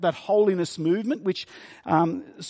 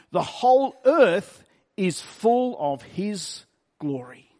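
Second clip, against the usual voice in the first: scripture reading. Acted. Reading Isaiah's vision aloud.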